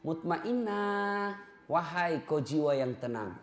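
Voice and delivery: slow, soft calling of the name; soft prayerful calling; gentle calling. Retold or imitated. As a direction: call her softly. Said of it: "everyone calls her name".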